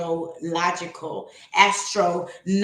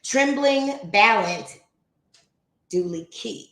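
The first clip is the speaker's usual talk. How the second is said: slow, measured poem recital; poem reading; slower than usual. Acted. Reading Emerson's opening poem to the stream, slow recital. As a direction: read each line slowly and deliberately.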